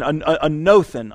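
anothen broken into halting tries; spelling out anothen. Shown as a demonstration. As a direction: stumble into the Greek word anothen. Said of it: "A N O T H E N".

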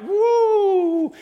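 high, loud whooping cheer; crowd cheer. Retold or imitated. Preacher imitating a hyped church crowd doing the wave, loud whoop.

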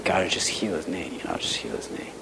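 hushed prayer. Retold or imitated. Teacher silently praying for his student's knee, hushed murmur. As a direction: pray under your breath so he can't hear.

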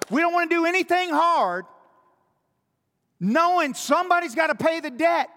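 preacher building from firm to fiery; preaching at full force. Acted. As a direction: build the rebuke to a peak.

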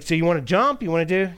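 dad asking daughter on trampoline, eager. Retold or imitated. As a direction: coax the child to jump. Father voiced in story.

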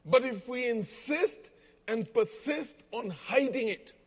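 slow, measured preaching with long pauses; sermon. Acted. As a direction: preach it, let each line sink in. Preacher's sermon after the joke.

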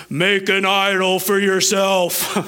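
a lightly voiced solemn God, slow on the first words; mock divine pronouncement, barely changed; best godly voice. Preacher putting on a godly voice for the commandment. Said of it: "in my best godly voice".

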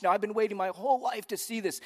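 high, loud exultation; rejoicing. Acted. Preacher voicing Simon the priest seeing salvation at last, rejoicing. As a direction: proclaim it with overflowing joy. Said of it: "Simon the priest is rejoicing".

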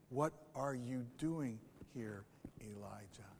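gentle whisper. Acted. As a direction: breathe the question gently like a still small voice. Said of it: "a gentle whisper".

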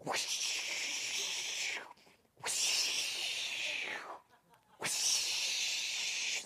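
breathy whoosh, no voice; whooshing sound effect. Pretend. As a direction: blow out a long whoosh like wind. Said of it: "Sound effects not included".

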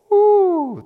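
high, loud "woo"; sudden high-pitched exclamation; loud whoop. Real, not acted. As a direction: let out a high whoop after a stinging line. Reacting to a stinging quote.

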